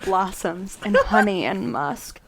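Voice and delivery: measured, overwrought romance narration; dramatic romance reading. Acted. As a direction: savour each phrase with mock reverence. Reads the book passage dramatically.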